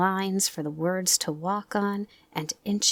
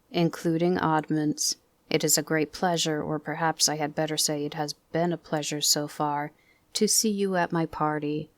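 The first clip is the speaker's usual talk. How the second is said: Eeyore's gloomy voice. Acted. Eeyore's speech.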